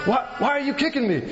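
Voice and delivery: high, excited cartoon donkey whine; Eddie Murphy donkey voice. Preacher imitating the donkey being kicked, high cartoon voice. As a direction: play the indignant talking donkey. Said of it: "like, the Eddie Murphy voice".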